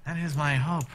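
lightly voiced calm scholar; a hint of a formal old scholar; scholar NPC voice.

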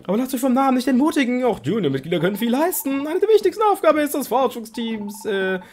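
lightly voiced friendly Ampharos; disguised Ampharos voice. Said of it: "Mit verstellter Stimme".

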